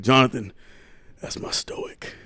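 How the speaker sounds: imitating dad, last words breathed out; hushed mock dad. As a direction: breathe out that's my stoic, unvoiced. Dad quoted describing brother.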